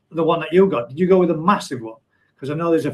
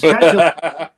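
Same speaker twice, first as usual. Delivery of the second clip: louder, hammed-up try at a Black Country accent; attempted Black Country accent; 8 dB louder than usual. Shown as a demonstration. Reading a viewer's comment aloud in a tried Black Country accent. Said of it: "hardest kind of accent to pronounce".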